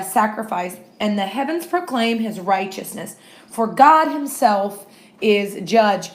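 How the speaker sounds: unhurried Bible reading; scripture reading. Acted. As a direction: read each line aloud with weight. Reads Psalm fifty aloud.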